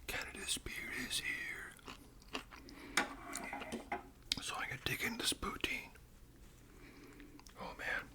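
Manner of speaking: ASMR whisper. Acted. Host whispering about Canadian food to viewers, ASMR whisper. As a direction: whisper each word like sharing a treat.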